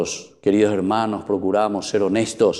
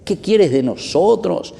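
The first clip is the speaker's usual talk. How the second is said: higher, slow mock cry of the possessed man; demon's cry; 8 semitones higher than usual. Preacher voicing the possessed man crying out, slow higher mock cry. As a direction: lift it up and drag it out like the possessed man. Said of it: "el endemoniado grita".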